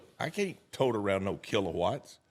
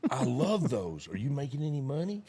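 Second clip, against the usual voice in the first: higher, fast, laughing eager question; laughing delight; 5 semitones higher than usual. Retold or imitated. Kid laughs with delight hearing the pitch. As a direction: gush through a laugh like a thrilled kid.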